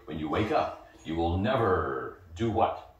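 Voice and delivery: slow, low hypnotic drone; hypnotist voice. Retold or imitated. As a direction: lull her under like a stage hypnotist. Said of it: "He's hypnotizing you".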